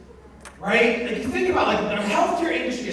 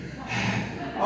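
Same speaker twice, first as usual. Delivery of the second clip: catching breath; 6 dB quieter than usual. Retold or imitated. Imitates winded partner catching breath.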